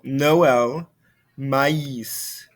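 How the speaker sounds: two vowel sounds each in "Noël" and "maïs"; separated vowels. Shown as a demonstration. Teacher showing the tréma, vowels in "Noël" and "maïs" pronounced separately. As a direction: split "Noël" into no-el and "maïs" into ma-ees. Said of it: "both should be pronounced separately".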